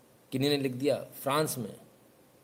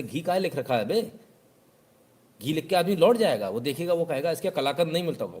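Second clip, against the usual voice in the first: louder, scornful explaining; know-it-all lecture; 4 semitones higher, 3 dB louder than usual. Retold or imitated. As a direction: talk down to the shopkeeper. Customer lecturing shopkeeper.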